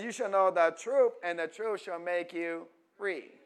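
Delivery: loud scripture proclamation; forceful sermon quote, starting high and loud; preaching. Real, not acted. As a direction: proclaim the verse to the congregation.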